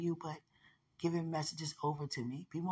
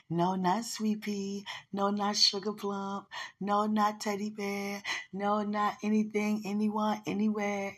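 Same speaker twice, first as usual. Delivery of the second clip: playful; 4 semitones higher, 4 dB louder than usual. Real, not acted. Playfully rejecting other pet names.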